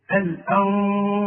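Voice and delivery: ikhfa with ghunna on الأنصار, nun hidden before الصاد; الأنصار بإخفاء وغنة; nasal hiding of nun. Shown as a demonstration. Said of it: "شوف".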